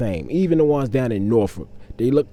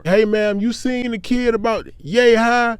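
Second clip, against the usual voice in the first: high, formal officer questioning; cop voice; 11 semitones higher, 4 dB louder, slower than usual. Retold or imitated. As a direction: ask like a patrol cop.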